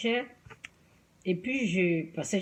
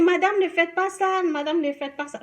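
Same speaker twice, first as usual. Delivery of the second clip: higher, louder retold telling-off; urgent scolding; 8 semitones higher, 5 dB louder than usual. A lady comes over to tell the shopper to stop, urgent scolding. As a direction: imitate a woman urgently calling out a stop. Acting out woman telling her off.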